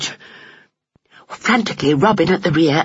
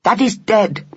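higher, exasperated bluntness; sharply; 7 semitones higher than usual. A narrator's reading. Mother mouse telling children bluntly, sharp. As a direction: spell it out impatiently. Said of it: "said Hyacinth sharply".

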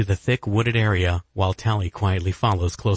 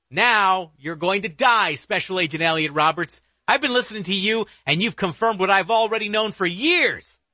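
dark whisper behind you; 11 semitones higher than usual. Acted. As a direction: savor the threat. Killer announces death.

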